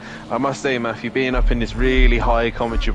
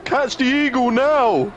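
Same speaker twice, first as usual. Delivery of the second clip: mock panic; slower than usual. Joking to co-host about the eagle, high hammed-up panic. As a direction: squeal it like an eagle got in.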